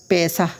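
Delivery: "পেশা" sounded with an open "aa" after the s; zabar vowel demo. Shown as a demonstration. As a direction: read "পেশা" as pe-saa, s not sh. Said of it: "ধরেন জবর দিয়ে দেখলাম".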